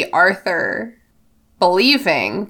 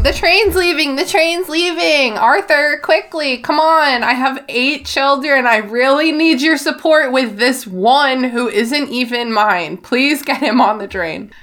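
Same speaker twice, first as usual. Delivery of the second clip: harried mom; 6 semitones higher than usual. Retold or imitated. Voicing Mrs Weasley hurrying family.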